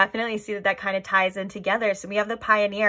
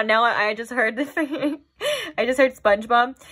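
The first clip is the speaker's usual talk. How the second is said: giggly speech broken by laughter; 3 semitones higher than usual. Explaining a sudden thought mid-reading, laughing while talking. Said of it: "I'm laughing".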